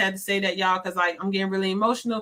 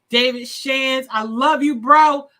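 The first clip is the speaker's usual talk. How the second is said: loud shout-out; 3 semitones higher, 6 dB louder, slower than usual. Real, not acted. Shout-out to David Shands.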